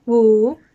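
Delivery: Wu loud, dipping then rising; third tone. Shown as a demonstration. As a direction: take Wu down and then up. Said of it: "going down and then up".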